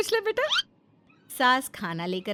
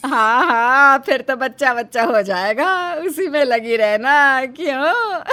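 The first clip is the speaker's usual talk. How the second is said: teasing; 8 dB louder than usual. Acted. Mother-in-law teases about children.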